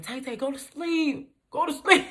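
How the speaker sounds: high, slow cooing; coaxing like a baby. Retold or imitated. Friend cooing at her to sleep, high and slow. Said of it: "like a little baby".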